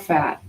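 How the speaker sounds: "fat" with an English f sound; mispronunciation shown. Shown as a demonstration. Teacher showing students what it's not, "fat" with an f. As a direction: say "fat" with f instead of puffed p. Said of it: "it's an aspirated P H".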